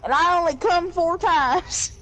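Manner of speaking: drawn-out mock hillbilly boast; put-on hillbilly accent. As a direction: stretch it out in a redneck accent. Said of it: "let me change my accent here to match".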